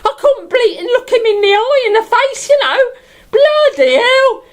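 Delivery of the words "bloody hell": laughing. Acted. Swooning over Roger.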